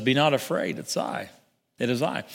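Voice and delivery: soft, half-whispered comfort, barely voiced; calm them with a near whisper; hushed reassurance. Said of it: "And Jesus says".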